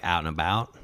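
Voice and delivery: "out and about" with American vowels; American accent. Shown as a demonstration. Taught at music camp to speak American, demonstrated American accent. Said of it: "taught me how to speak American".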